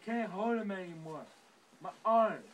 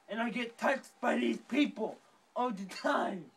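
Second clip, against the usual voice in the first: angry rant; 2 semitones higher, 6 dB louder than usual. Acted. Character rants about being mocked.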